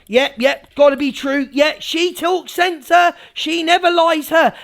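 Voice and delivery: lightly mocked gullible agreement; Evil Army impression. Mimicking followers defending EQ's tall tales, mock loyal. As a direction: nod along in words like a devoted follower. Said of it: "I'll do an impression of the Evil Army".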